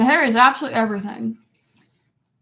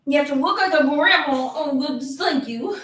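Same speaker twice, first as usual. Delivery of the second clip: cooing pet talk; 3 semitones higher than usual. Real, not acted. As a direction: coo at the pet with a swooping lilt. Cooing at dressed-up dog.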